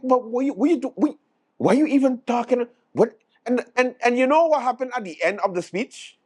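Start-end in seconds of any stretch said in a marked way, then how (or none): 0.0-3.2 mock outraged "why you even talking"; incredulous heckle. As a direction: scoff at him in disbelief. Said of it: "it was like".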